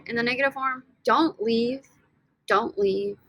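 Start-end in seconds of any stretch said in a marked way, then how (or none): 2.5-3.2 unvoiced whisper of the phrase; soft whispered translation. Shown as a demonstration. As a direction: breathe it out as a whisper. Translating command softly.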